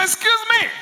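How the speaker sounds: high amazed Excuse me; mock astonishment. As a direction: play the stunned neighbour. Mocking amazed onlookers.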